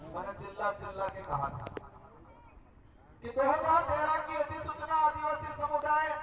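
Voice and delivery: forceful public oratory in punched phrases; political rally speech. Real, not acted. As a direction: address the crowd with declamatory force, pausing after phrases. (चुनावी सभा का जोशीला भाषण)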